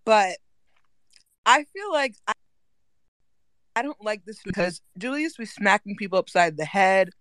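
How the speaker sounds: talking through a bite of dinner; chewing noisily. Real, not acted. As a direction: mouth full of food. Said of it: "I'm eating dinner, so I have a little food in my mouth".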